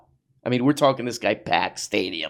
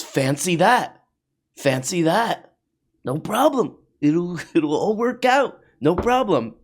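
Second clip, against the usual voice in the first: smug mock Peterson; 5 semitones higher than usual. Voicing Jordan Peterson smugly.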